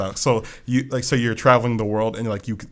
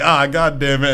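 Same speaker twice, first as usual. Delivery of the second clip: mock exasperation; 4 semitones higher, 7 dB louder than usual. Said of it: "They're all like".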